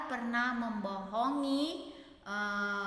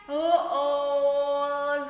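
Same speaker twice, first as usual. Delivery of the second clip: surprised gasp; 3 semitones higher, 11 dB louder than usual. Acted. Storyteller to children, revealing Laban's trick, shocked. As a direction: sell the shock of the wrong bride. Twist: Laban gave Lea.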